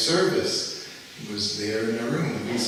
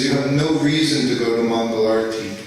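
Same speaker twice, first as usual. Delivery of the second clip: retold angry yell; 5 dB louder than usual. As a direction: bark it out like a guru who was kept waiting. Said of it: "he's screaming at me".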